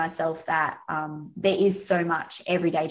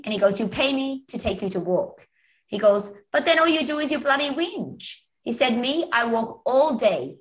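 higher-pitched retelling of the porter, unhurried in places; voicing the porter's gentle scolding; 3 semitones higher than usual. To whining Aussie trekkers, lightly voiced porter.

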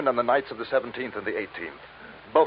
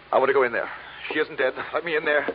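frantic demand; 6 semitones higher than usual. Acted. Frantic boyfriend refusing to believe death.

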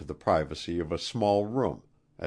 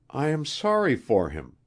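sincere sympathy, raised pitch; 9 semitones higher, 3 dB louder than usual. A narrator's reading. Wilson hearing of his friend's wound, sincere. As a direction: offer heartfelt regret. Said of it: "said Wilson sincerely".

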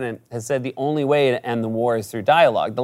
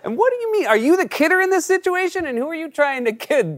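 mock spooky voice; 13 semitones higher than usual. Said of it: "spooky whisper thing".

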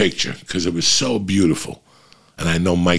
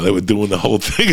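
normal talking voice

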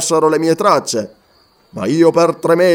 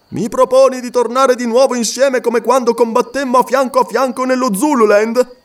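voce del guerriero Umslopogaas, un po' più alta; un guerriero zulu risponde con orgoglio; guerriero fiero; 6 semitones higher than usual. Acted. Umslopogaas replies, character voice. (guerriero Umslopogaas, tono fiero)

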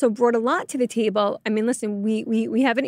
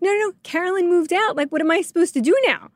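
high, whiny mock lament; mock wail; 6 semitones higher, faster than usual. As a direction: wail it like a heartbroken child. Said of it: "I'm like".

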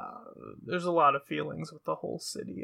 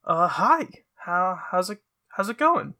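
shy doll voice; 3 semitones higher, 4 dB louder than usual. Acted.

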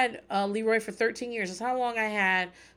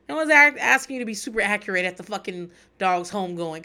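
much louder scolding outburst; mock scolding; 7 dB louder than usual. Real, not acted. Scolding the over-precise kid at the homegoing, a loud mock rebuke.

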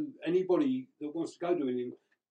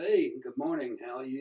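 casual imitation of a Tennessee accent. Tennessee friends answering the English woman at breakfast, in their Tennessee accent. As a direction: greet lightly in a Southern US accent. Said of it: "You know, in the accent".

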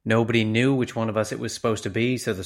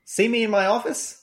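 Brett Germain voice; 11 semitones higher than usual. Retold or imitated. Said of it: "another Brett impression".

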